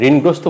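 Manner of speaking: ঋণগ্রস্ত said "rin-grosto"; bare n before g in ঋণগ্রস্ত; no middle "o" in ঋণগ্রস্ত; wrong pronunciation. Shown as a demonstration. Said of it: "ঋণগ্রস্ত হবে না".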